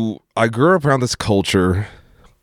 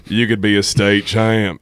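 slow, lightly voiced coach's pitch; Coach Moore. Coach urging him into wrestling, lightly imitated and drawn out. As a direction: draw it out like a coach selling a dream. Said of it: "that's what he always said".

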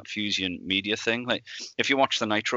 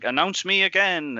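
imitating Vince; 9 semitones higher, 4 dB louder than usual. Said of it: "he's like".

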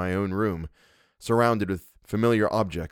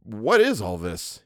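gentle; slower than usual. Acted. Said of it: "he inquired in a gentle voice".

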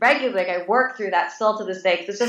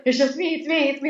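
higher-pitched imitation of a flustered husband; imitated hasty reassurance; 7 semitones higher than usual. Husband calming screaming wife in bed, imitated hasty reassurance. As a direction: lightly act out urgent self-identifying.

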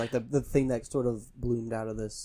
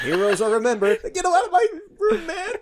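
loud laughing yell; 6 dB louder than usual. Pretend. Hammed Babe Ruth line.

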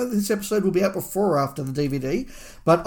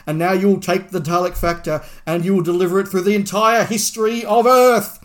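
booming voice; 3 dB louder than usual. Retold or imitated. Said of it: "big, commanding, booming voice".

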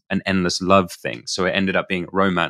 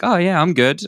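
faking being fine; 9 semitones higher, 3 dB louder than usual. Retold or imitated. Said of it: "I just had to sort of react like".

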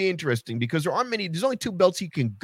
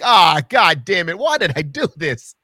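mock regret; 3 semitones higher, 5 dB louder than usual. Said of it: "It's like".

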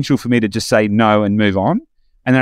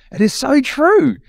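emphatic agreement; 14 semitones higher, slower than usual. Real, not acted. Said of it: "repeated emphatic agreement".

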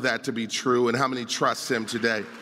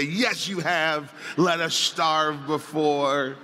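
slow, mock-indignant child's comeback; drawn-out snarky retort; snarky kid; slower than usual. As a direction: lightly mimic a kid talking back. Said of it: "if your kids are like my kids".

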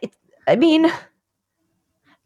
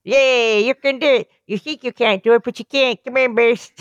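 cheering coach; 3 semitones higher than usual. Retold or imitated. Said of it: "I like our voice".

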